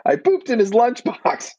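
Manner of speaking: "lunchbox" stated calmly, deadpan and high; dead straight face. Retold or imitated. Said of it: "says it with a dead straight face".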